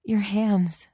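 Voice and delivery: wild, pleading cry. Acted. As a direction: blurt it out, overwhelmed. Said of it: "said Danielle wildly".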